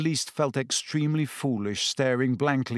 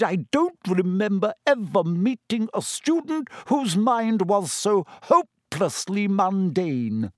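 the seer cutting a student down; cold anger; 6 semitones higher than usual. Acted. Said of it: "surveying Hermione with unmistakable anger".

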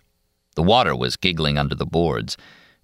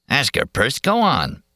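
egging-on loafer; 8 semitones higher, slower than usual. A narrator's reading. Loafer eggs on Perce.

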